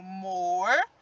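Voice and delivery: "morcego" in three beats, mor, ce, go; separated into syllables. Shown as a demonstration. Teacher dividing the word for pupils, syllable by syllable. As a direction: leave a clear pause after each syllable of "morcego". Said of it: "Separando essa palavra em sílabas".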